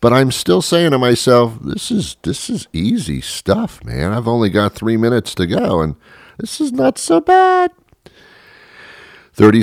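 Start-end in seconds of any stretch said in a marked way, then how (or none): 1.6-7.7 high, squeezed voice insisting all is fine; strained bravado. Acted. Comic telling himself on the treadmill it's easy, strained bravado. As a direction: strain upward while playing it cool.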